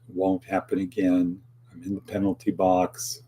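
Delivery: subdued, sincere repentance; repentant apology. Shown as a demonstration. Host showing the right sorry to someone let down, repentant. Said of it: "a re-, repentance type of sorry".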